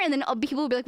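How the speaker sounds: ordinary delivery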